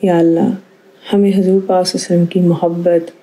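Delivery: earnest closing supplication, steady and devout; prayer. Real, not acted. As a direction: pray sincerely to close the programme. (عاجزی سے دعا)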